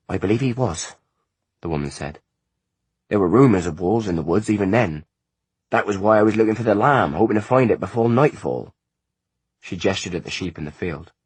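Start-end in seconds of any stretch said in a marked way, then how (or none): 0.1-8.7 a lightly higher, earnest country mother; a mother pleading for her boy, a bit raised; anxious mother. A narrator's reading. Mother apologising to the visitors for her son, earnestly.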